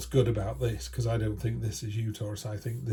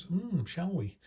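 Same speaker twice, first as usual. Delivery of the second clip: curious Fool; 7 semitones higher, slower than usual. Retold or imitated. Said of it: "the Fool energy kinda goes".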